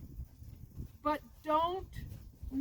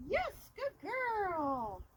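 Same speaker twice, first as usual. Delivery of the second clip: slow praise; 3 semitones higher, 3 dB quieter, much slower than usual. Real, not acted. Praising dog in training.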